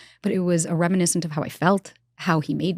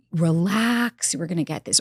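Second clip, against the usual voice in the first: imitated dismissiveness; slower than usual. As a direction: imitate a partner waving off the question. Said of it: "always dismissing me".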